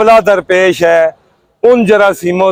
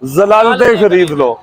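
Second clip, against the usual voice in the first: measured, declaimed Urdu verse with falling line ends; rhythmic protest poetry; poem recitation. Acted. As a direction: recite it line by line, pausing after each.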